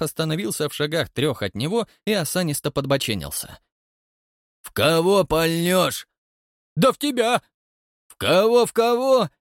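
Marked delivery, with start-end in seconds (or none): 4.6-6.1 slow mocking challenge. A narrator's reading. Count confronts the watchman. 6.8-9.3 high, loud frightened retort; high scared shout. A narrator's reading. Watchman answers the count in a high frightened shout.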